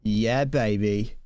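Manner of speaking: slow, drawn-out mock Austin Powers; a lightly voiced groovy spy catchphrase; Austin Powers impression. Quoting the movie for a friend, a slow light Austin Powers impression. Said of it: "named after Austin Powers".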